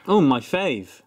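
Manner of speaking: sarcastic. Real, not acted. Guest greeting the lobster spread with cognac, sarcastic. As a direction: feign delight at something unappetising. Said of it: "I detect a hint of sarcasm".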